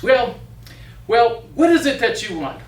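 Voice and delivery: the witch snapping then flattered; lightly voiced witch, flattered. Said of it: "And she said".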